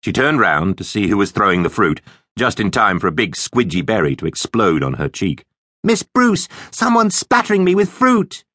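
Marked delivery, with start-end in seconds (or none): 5.8-8.4 very high, shrieky tattling to the teacher; squealing complaint. A narrator's reading. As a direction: wail to the teacher in outrage. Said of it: "squealed Leonie".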